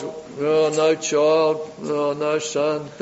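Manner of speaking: drawn-out, softened mock moan; mock lament.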